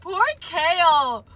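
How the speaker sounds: aching for the character, near tears; real heartbroken. Real, not acted. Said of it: "I feel so bad for everyone".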